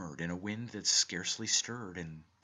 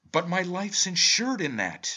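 shrill, very loud, high outcry; 9 semitones higher, 9 dB louder than usual. The narrator cries out after a man names his insurance company: crying out. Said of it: "I cried".

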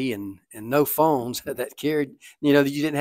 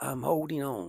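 faint, feeble, very quiet, weak little voice; 10 dB quieter than usual. Recalling a brother who fell on rocks answering their dad, imitating brother's weak voice. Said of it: "my brother's weak voice says".

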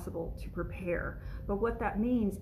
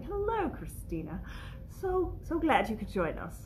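poor, fake British accent, higher; 5 semitones higher than usual. Host greets a viewer joining the live session, in a poor British accent. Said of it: "I'm doing a poor British accent all of a sudden".

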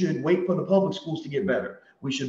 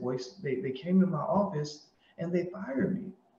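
mock downcast, sorrowful, soft, sad voice; 7 dB quieter than usual. Retelling a phone call where a teacher says she was fired: imitating someone sounding sad. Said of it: "She sounds sad".

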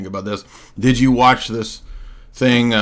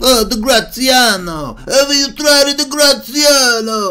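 very high, pitched-up put-on character voice; 13 semitones higher, 4 dB louder than usual. Joking about a book title sounding like a dish: Watto voice. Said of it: "I sound like Watto from Fan-, Phantom Menace".

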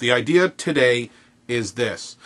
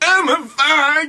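put-on screechy comedian voice, higher and louder; 4 dB louder than usual. Pitching a cartoon remake, doing the fox as Bobcat Goldthwait. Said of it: "but it's Bobcat Goldthwait, so it's like".

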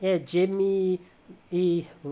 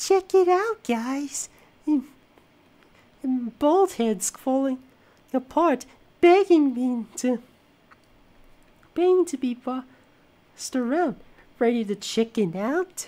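put-on quiet cartoon voice; 10 semitones higher, 5 dB louder than usual. Describing a cartoon character's one try at a silent voice, imitating Eddy's quiet voice. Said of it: "Eddy actually does try to do a silent voice".

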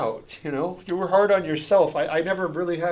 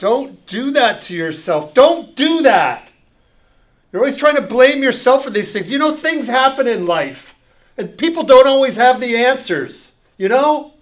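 very loud, high-pitched shouting; 6 semitones higher, 9 dB louder than usual. Telling someone who blames himself for his mother leaving not to, yelling. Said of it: "I don't know why I'm yelling at you".

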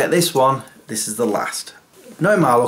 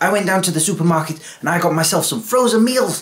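fast, high, botched put-on Japanese accent; 6 semitones higher than usual. Trying out an accent for an audience, a failed Japanese accent attempt. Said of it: "That is not a Japanese accent".

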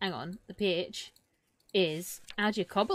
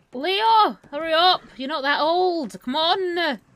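very loud, high, urgent shout; 9 semitones higher, 8 dB louder than usual. Playing a game, the speaker yells at a slow horse: yelling at slow horse. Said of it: "yelling at slow horse in game".

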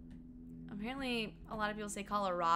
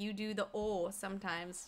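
ordinary talk

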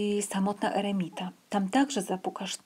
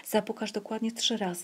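ordinary delivery

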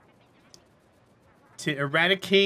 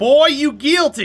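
mock, loud, slow Southern drawl. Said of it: "sometimes I say things with a southern drawl".

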